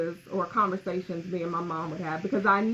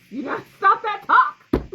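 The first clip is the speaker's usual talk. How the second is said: mock scolding; 12 semitones higher, 9 dB louder than usual. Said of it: "I'm like".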